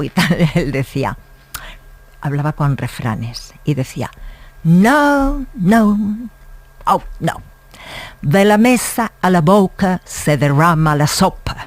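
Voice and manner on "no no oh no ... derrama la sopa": put-on American accent. Profesor americano corrigiendo a un alumno lento, con fuerte acento americano. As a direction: imitate the deaf American teacher's heavy American Spanish. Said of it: "con ese acento americanísimo".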